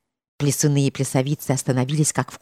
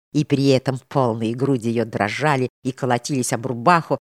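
usual speaking voice

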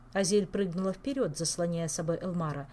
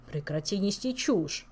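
indignant. Acted. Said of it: "возмутился Элмар".

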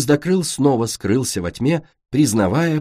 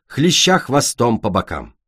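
plain reading voice

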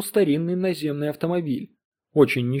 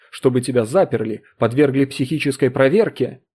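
harsh warning; 4 dB louder than usual. Acted. Husband threatens wife harshly.

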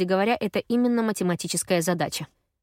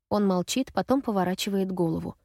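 ordinary delivery

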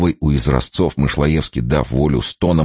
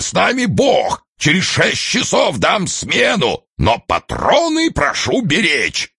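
much higher, lisping, nasty mock of a colonel. Officer mocking colonel Shchetkin's speech to the troops, thin lisping voice. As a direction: ape a cloying pompous colonel. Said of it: "противным, тонким и сюсюкающим голосом".

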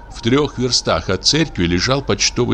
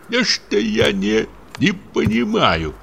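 slow, higher mutter; 12 semitones higher, slower than usual. A narrator's reading. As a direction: mumble it darkly to himself. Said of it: "забормотал он".

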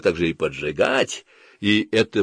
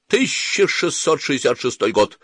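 higher recited date, falling away; as if to oneself; 5 semitones higher than usual. A narrator's reading. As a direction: intone the year like a private refrain. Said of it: "начинал бормотать как бы про себя".

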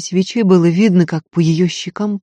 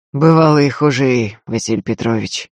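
gloomy; 2 semitones lower than usual. Acted. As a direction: answer darkly, turning away. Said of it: "мрачно ответил тот".

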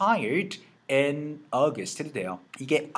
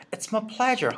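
It's my pleasure said higher, with a sing-song lift; cliché high version; 9 semitones higher, much slower than usual. Shown as a demonstration. Teacher mocking the cliché way of saying it. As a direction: ham up the stock polite phrase. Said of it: "굉장히 좀 클리셰이하기는 해요".

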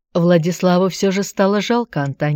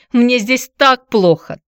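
slow lament; 7 semitones higher, 5 dB louder, slower than usual. A narrator's reading. Repeated lament.

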